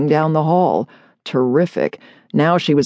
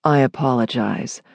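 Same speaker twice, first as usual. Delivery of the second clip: deeper, resonant man; 5 semitones lower, 4 dB quieter than usual. Acted. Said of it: "far deeper and much more resonant".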